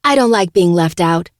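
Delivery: loud snarl. Acted. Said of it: "Francesca snarls".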